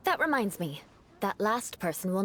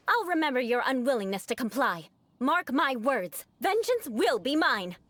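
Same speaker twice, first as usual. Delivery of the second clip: mock vengeful vow; 2 semitones higher than usual. Vowing vengeance after rude refusal.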